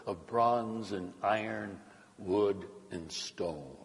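animated, emphatic Bible narration; scripture reading. A narrator's reading. Preacher reads the banquet story to the congregation, emphatic scripture reading.

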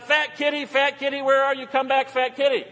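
high-pitched call for a lost cat; imitated calling out. Ann calling the cat in at night, imitated yell. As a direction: mimic someone calling a pet home. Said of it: "Ann yells out".

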